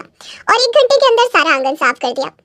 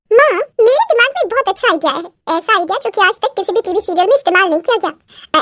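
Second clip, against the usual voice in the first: lightly voiced, excited nanad; a hint of eager plotting; scheming daughter; 3 semitones higher than usual. Daughter pitching mother a brand-new idea, mildly excited.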